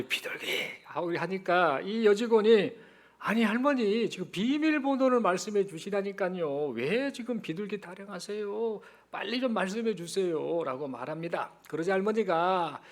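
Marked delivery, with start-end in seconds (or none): 0.0-0.5 hushed, furtive reply; secretive whisper. Acted. Grandmother repeating the hint to the clerk, whispering. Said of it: "작은 목소리로". 3.2-10.6 mildly exasperated, higher-pitched plea; exasperated bank clerk. Acted. Clerk pressing an evasive old customer for her password, mildly exasperated. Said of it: "은행 여직원이 답답합니다".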